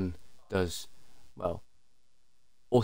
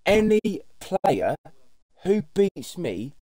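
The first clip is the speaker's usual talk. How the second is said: raging gamer; 5 semitones higher than usual. Real, not acted. Ranting about reporting.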